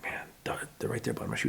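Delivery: retold stalking whisper; hushed whisper. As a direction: whisper it as if deer are close. Sneaking up on deer.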